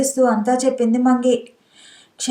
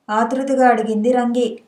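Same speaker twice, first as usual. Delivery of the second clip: ordinary delivery, nothing marked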